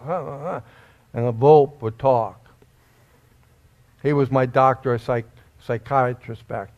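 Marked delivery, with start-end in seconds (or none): 0.0-0.6 quiet breathy sobbing gasps; soft retold sobs. Young man in the basement, sobbing quietly. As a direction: sob softly, remembering that night. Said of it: "I'm crying".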